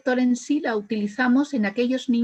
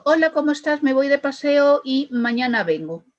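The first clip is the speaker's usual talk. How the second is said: "Hola, ¿cómo estás? Me voy de paseo y mañana vengo" rattled off in one breath, a bit higher, no stop at the question mark; run-on, no pauses; 4 semitones higher than usual. Shown as a demonstration. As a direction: blur it all together as if the punctuation weren't there. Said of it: "todo sin parar".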